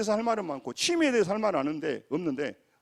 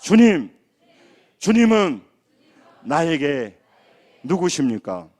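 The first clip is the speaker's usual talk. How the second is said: loud prayer cry; 2 semitones lower, 11 dB louder, slower than usual. Shown as a demonstration. Pastor leading the congregation in a prayer cry, loud. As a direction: cry out each phrase loud, with pauses. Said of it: "따라서 합니다".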